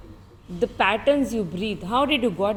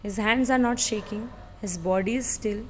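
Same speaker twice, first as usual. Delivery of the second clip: hushed commentary; 3 semitones lower, 6 dB quieter than usual. Real, not acted. Hushed commentary during challenge.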